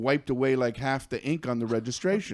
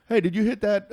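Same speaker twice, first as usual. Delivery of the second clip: imitated southern accent, higher pitched; 9 semitones higher, 4 dB louder than usual. Hunters running up to the driver, eager southern accent. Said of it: "they had a southern accent".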